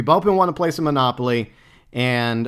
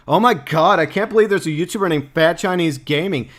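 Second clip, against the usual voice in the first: mock outraged SJW; 3 semitones higher, 3 dB louder than usual. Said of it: "Like, S J Ws, where you come in".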